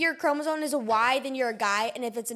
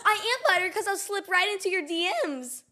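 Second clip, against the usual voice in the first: cheesy pickup line; 6 semitones higher than usual. Pretend. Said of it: "pickup lines".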